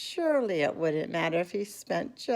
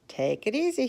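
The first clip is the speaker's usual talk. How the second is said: shopkeeper warning; 7 semitones higher than usual. A narrator's reading. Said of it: "he said".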